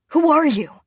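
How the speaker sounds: loud, high, baffled question. A narrator's reading. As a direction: blurt it out in shock.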